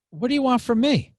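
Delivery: put-on high, loud Italian-accented father. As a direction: protest loudly in a light Italian accent. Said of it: "kinda Italian accent".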